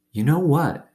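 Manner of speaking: put-on high, curious old woman; a hint of a knowing neighbour. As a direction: ask like a kindly old woman. Gloria Dump speaks in story.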